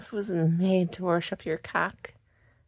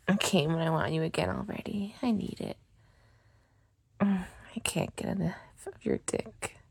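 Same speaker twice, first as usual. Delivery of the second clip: afterglow whisper; 4 dB quieter than usual. Acted. After climax, whispering to her partner for more.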